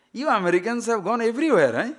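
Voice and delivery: mock-incredulous guide delivering the punchline; Greek guide's retort. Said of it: "Then the Greek guide said".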